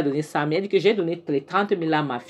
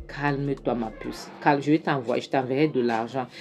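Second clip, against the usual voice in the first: soothing; 3 semitones lower, 4 dB quieter than usual. Retold or imitated. Mother soothing daughter.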